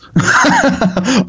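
sudden high laugh, real amusement; a quick real laugh at the compliment; high burst of laughter. Real, not acted.

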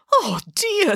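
high squeaky Boris; Boris voiced. A narrator's reading. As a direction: voice of the gentle bear. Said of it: "said Boris".

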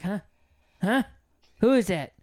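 bossy sleep-talk. Retold or imitated. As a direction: mimic a half-asleep girlfriend bossing you out. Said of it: "she starts giving orders".

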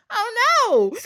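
very high, loud mock wail; hammed-up lament tipping into giggles; mock dismay. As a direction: wail it while half laughing. Mock horror at the lamb twist.

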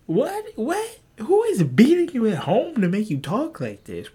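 high, squeaky, loud disbelief; baffled mock outrage. To a Call of Duty player, high baffled outrage. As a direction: play it utterly baffled by the insult. Acted baffled reply to insult.

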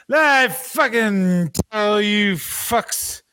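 hammed-up furious wrestler rant; mock rant.

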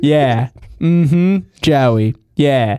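put-on low, drawn-out old aunt voice; great-aunt Bernadette. Great-aunt agreeing with Joey, imitated low old-lady voice. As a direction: trail through agreeable murmurs as an old aunt. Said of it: "So she'll be like".

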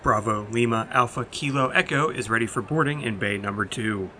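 airport boarding call announcer; crisp tannoy-style announcement; over a PA system. Acted. Mock boarding announcement opening.

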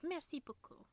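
high, light tourist French; playful high-pitched merci; imitated happy thanks. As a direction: mimic a delighted French thank-you without volume. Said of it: "you were so happy there".

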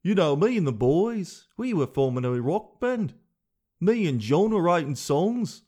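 slightly shaky attempt at a Liverpool accent. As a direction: lightly put on a Liverpool band member's accent. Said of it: "like Liverpool".

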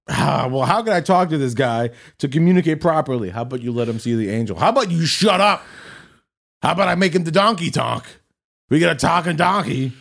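high, excited mock God voice; playful mocking God rant. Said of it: "and you're like".

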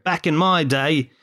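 put-on English accent, nostalgic; mock English Brexiteer. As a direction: hark back to better days in an English accent. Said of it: "in the mind of a Brexiteer".

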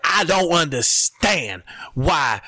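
slow, drawn-out mock pundit, hinted; exaggerated mock Stephen A. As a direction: drag out the words like a baffled pundit. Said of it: "we don't talk like that, but he's like".

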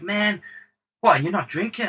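high-pitched, disbelieving bad impression; a rapper. Star incredulous that producer isn't drinking, bad impression. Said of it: "This is a really terrible rapper accent".

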